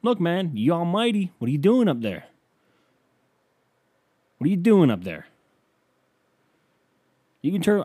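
high, loud indignant yelling; yelling at God. Retold or imitated. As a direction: call out to the sky, fed up. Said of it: "I say things like".

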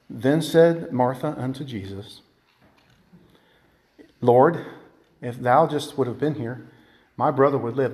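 low, soft, meek recital; docile reading. Shown as a demonstration. Preacher shows how we read Martha's words, docile and subdued. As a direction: read it tamely, hushed and low. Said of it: "in a docile mode".

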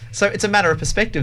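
usual speaking voice

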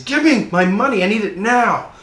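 loud, high shouted demand; high-pitched yell, pitch falling as it goes; angry demand. Acted. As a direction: shout it like a creditor out of patience. Acted creditor, hands on debtor's throat.

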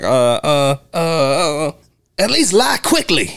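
high, exasperated imitation; a hint of a fed-up woman; mock annoyed. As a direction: stammer then snap it out, mock irritated. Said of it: "a very angry and annoyed person".

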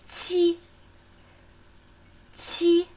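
"qi" held high and perfectly level; high, even tone. Shown as a demonstration. Teacher demonstrating the number seven, high even tone. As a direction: keep each "qi" up high without moving the pitch. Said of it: "Erste hohe, gleichmäßige Ton".

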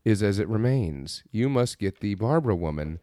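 slow, low, portentous decree; mock cult leaders. Illuminati giving Lance his mission, mock solemn voice. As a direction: intone it slowly like a secret society. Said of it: "and they're like".

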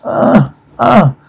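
brief yelps on impact; acted cries of pain. Reader voices axe victims, short mock cries.

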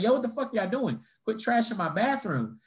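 mock-indignant telling-off; indignant confrontation. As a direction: call them out in disbelief. Retold confronting drunk girls.

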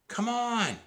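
high, drawn call; high-pitched impatient call; distant shout. A narrator's reading. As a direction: holler down from a treehouse window. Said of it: "Annie was shouting from the treehouse window".

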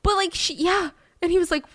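high, breaking into laughter, real; laughing while talking. Real, not acted. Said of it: "I'm laughing because".

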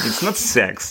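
laughing it off, slowed down; a real laugh through the words; amused correction through laughter. Real, not acted. Laughing correction of misheard word.

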